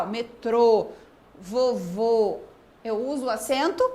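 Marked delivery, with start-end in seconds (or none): 0.1-2.4 METRÔ, VOVÔ ending in closed "oh"; closed final O. Shown as a demonstration. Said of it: "quando eu fecho pra falar".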